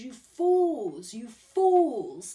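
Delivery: put-on booming old-world spirit calling out; ancient spirit voice. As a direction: thunder it like an ancient spirit scolding. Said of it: "They talk, like, in the Bible and Shakespeare kinda talk".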